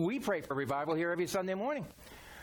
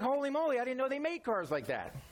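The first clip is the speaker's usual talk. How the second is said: surprised exclaim; 7 semitones higher than usual. Retold or imitated. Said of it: "I'm like".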